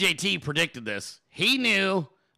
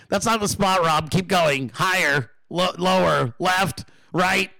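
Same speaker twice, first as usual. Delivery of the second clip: exasperated directions; 4 dB louder, slower than usual. Retold or imitated.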